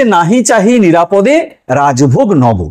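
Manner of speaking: slow, measured reading of a verse line; poem recitation. Shown as a demonstration. Teacher reciting an example verse to students, slow and measured. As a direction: read the example verse deliberately slowly. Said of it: "এখানে প্রথম উদাহরণটা দেওয়া হয়েছে".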